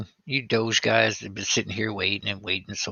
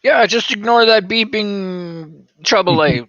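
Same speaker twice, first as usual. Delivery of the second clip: mock pilot voice; 11 semitones higher, 8 dB louder, slower than usual. Mock pilot joking about plane.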